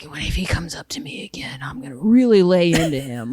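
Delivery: whispered plan of revenge; whispered inner thought. Retold or imitated. Comedian retelling her inner rehearsal at the gym, whispering. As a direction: hush it as a private thought. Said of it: "I'm like".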